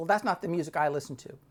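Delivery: mock unfriendly, hostile, defensive, bristling tone. Retelling a waitress's reply about her music: imitating a hostile tone. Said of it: "Kind of in a hostile tone".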